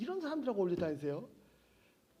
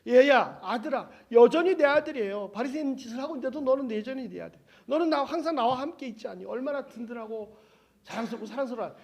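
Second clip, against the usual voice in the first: a father's loud, fond call that settles into pride; loving father; 3 semitones higher, 7 dB louder than usual. Acted. Father reassuring the grumbling older son, loud then fond. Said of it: "아버지 뭐라고 하셨어요?".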